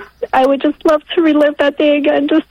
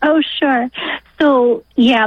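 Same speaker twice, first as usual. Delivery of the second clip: normal talking voice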